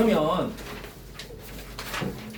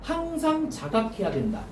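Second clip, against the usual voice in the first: measured dictation with long pauses between phrases. Real, not acted. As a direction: dictate it phrase by phrase for note-takers. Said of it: "불러줄게". (받아쓰도록 끊어서 불러주기)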